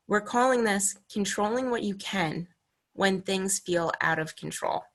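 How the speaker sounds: a hint of Olaf, calm and unhurried; steady, soothing Olaf. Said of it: "And very calmly, Olaf says".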